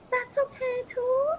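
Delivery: high, laughing through the words. Real, not acted. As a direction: let real laughter spill into the plea. Laughs while telling critics they can leave.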